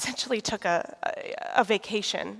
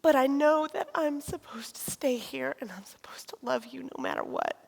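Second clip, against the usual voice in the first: tender whisper; 3 semitones higher, 4 dB quieter than usual. Retold or imitated. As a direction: whisper it gently, like a secret promise. Husband comforting her, whispered.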